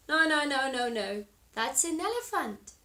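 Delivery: loud high no no no from the little monkey; little monkey shouting no; monkey's loud protest. Acted. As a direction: insist loudly it's wrong.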